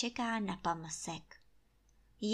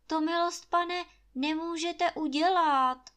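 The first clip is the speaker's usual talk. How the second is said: higher, stammering plea to the master; timid pleading; 7 semitones higher, 4 dB louder than usual. A narrator's reading. Gamekeeper timidly pleading with Trautenberg for the fish. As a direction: beg nervously, voice catching. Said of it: "hlas ho nechce poslouchat".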